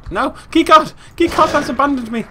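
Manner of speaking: high, loud comic wail; hammed-up high-pitched distress; mock despairing cry. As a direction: cry out as if abandoned. Wailing after a lost keycard.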